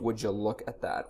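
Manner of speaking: a light Carol Channing meets Bush impression, soft; half-hearted presidential Channing croon; lightly voiced Channing-Bush mix. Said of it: "Carol Channing meets George H W Bush".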